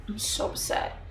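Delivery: breathy whisper, no voice; unvoiced whisper of mock upset. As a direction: whisper it like a wounded aside. Repeated as whisper.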